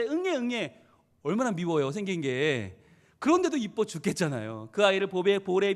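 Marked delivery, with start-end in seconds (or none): 0.0-0.8 mild mock baby wail; spoken imitation of a baby crying; imitated newborn cry. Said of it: "막 태어났을 때".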